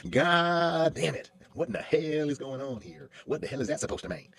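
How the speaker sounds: loud, slow, drawn-out Southern gentleman cussing; Southern accent. Shown as a demonstration. Actor showing his Southern character's mad scene, loud Southern accent. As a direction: bellow it like an angry Southern boss. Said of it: "I say everything with a Southern accent".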